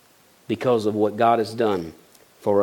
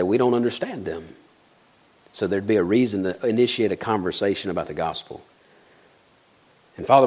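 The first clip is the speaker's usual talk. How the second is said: closing prayer. Acted. Pastor leads closing prayer.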